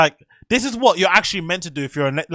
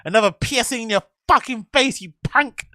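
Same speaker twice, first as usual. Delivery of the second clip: higher-pitched imitation of mockery; mocking; 5 semitones higher than usual. Viewer relishing her piercing insult, mock taunting. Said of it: "she's completely mocking".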